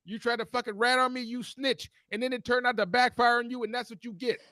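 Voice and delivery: laughing angry rant at coworker. Real, not acted.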